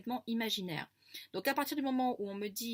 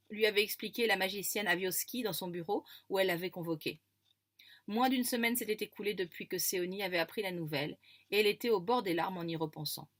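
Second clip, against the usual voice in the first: story reading. Acted. Narration between quotes.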